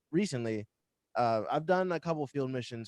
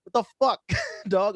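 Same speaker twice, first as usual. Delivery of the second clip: retold incredulity; 10 semitones higher, 7 dB louder than usual. Retold reaction to refusing man.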